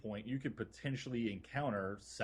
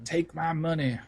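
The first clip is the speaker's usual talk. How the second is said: eager exclaim; 6 semitones higher, 7 dB louder than usual. Real, not acted. Eager reaction to skin offer.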